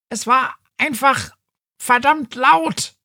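high, fast pedantic cat; know-it-all cat voice. Acted. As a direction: rattle off the logic, high. Cat answers, same voice.

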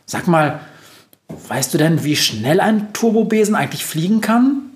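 eager question climbing high; keenly inquisitive; curious. A narrator's reading. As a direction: wonder aloud, pitch rising to the end. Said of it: "fragt sie dann neugierig".

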